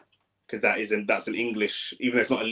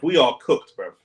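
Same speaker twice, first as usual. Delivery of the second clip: loud despair; 5 dB louder than usual. Real, not acted. Despair after conceding.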